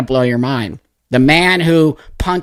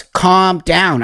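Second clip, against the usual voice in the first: high, mildly angry imitation; high-pitched mock command; retold dad's order; 5 semitones higher than usual. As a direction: mimic dad ordering calm. Dad retold in quarrel.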